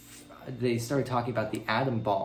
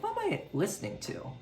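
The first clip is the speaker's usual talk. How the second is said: confused; 10 semitones higher, 4 dB quieter than usual. Retold or imitated. Confused reaction while listening.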